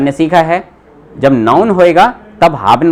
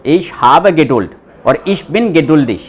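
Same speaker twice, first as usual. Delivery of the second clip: slow dictation; much slower than usual. Shown as a demonstration. Teacher dictates German examples.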